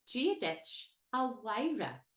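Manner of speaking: slow "Gia dich a Wyra", W sound for M H; Irish greeting demo. Shown as a demonstration. Teacher shows the W sound, slow. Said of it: "produces a W sound".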